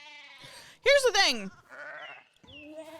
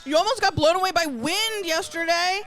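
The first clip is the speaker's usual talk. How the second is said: character voice; 6 semitones higher, 5 dB louder than usual. Acted. In-character remark in game.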